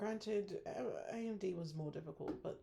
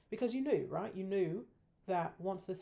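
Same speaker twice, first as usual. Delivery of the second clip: exasperated scolding; 3 semitones higher, 7 dB louder than usual. Real, not acted. Trader scolding their own past self, loud and exasperated. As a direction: hammer home that you knew.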